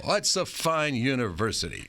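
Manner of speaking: lightly voiced grand old newsman; a hint of measured Walter Cronkite. Cronkite praising the intern's school, a hint of stately anchor. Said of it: "that's how he talked".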